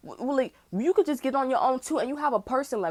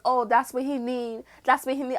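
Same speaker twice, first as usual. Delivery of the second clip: mocking the mother; 3 semitones higher than usual. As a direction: drag it out to mock her. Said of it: "this mother's like".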